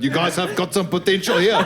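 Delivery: lightly voiced South African accent; mild mock South African referee voice. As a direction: do a South African rugby ref. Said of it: "a South African turned up with a whistle".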